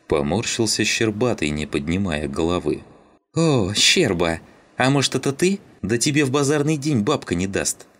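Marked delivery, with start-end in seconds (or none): 3.3-7.9 mocking jeer. A narrator's reading. Mocking Shcherbaty in front of everyone, jeering. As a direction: needle him for a laugh.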